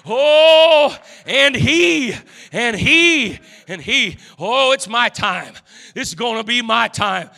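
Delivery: a blind beggar building toward a shout of hope; a lightly voiced beggar who believes his time has come; Bartimaeus hoping. Blind beggar to the crowd, lightly voiced rising hope.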